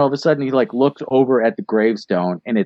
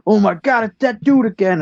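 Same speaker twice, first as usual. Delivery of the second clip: mock shock; 10 semitones higher than usual. Retelling shock at the car.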